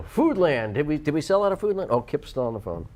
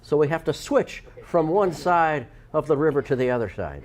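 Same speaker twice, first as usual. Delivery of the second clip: put-on Irish accent. Shown as a demonstration. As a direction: switch into an Irish lilt. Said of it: "which is an Irish accent".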